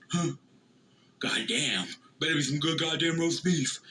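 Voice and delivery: lightly voiced grumbling old man; a hint of Dad grumbling at the price. Dad complaining about expensive roast beef, lightly mock grumbling. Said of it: "he always does the same thing".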